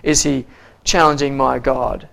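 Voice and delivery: acted indignation with a drawn-out WHY; mock protest, lightly played; mildly upset. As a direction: imitate someone mildly affronted. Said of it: "he was, he was upset".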